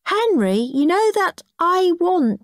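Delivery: high, slow, sing-song telling-off; prim little brother. Acted. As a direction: lecture him like a goody-goody child. Goody brother scolds Henry.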